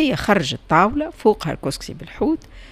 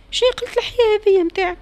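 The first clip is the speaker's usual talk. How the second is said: high, indignant rebuke; indignant husband; 3 dB louder than usual. A narrator's reading. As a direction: throw it at her, outraged. (الزوج يوبّخ زوجته باستنكار وبصوت عالٍ)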